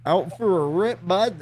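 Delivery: high, lilting Canadian bud talk; cheery mock Canadian question; Canadian accent. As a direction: ask it like a hammed-up Canadian. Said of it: "That one's, that one's Canadian as fuck".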